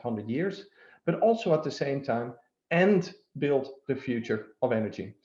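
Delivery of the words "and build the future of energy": "and" set apart and emphasised; stress on and. Real, not acted. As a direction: lean on the word "and", then carry on evenly. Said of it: "the emphasis on the word".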